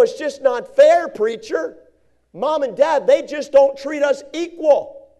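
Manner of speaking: bitter complaining youth. Retold or imitated. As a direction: whine that it's unfair, slowly. Mimicking a bitter nineteen-year-old.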